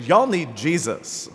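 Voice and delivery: a light hint of a Southern drawl on the quote; barely put-on Southern accent, said half in jest. Medieval Christians to the Norse, in a faint mock Southern accent. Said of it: "Not with that accent".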